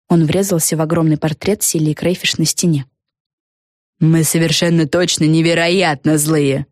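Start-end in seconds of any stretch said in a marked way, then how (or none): 4.0-6.7 slow, mildly menacing hiss. Acted. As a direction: insist slowly through the teeth, indignant. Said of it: "прошипела Фелисити Бет". (сдержанное злое шипение, медленно)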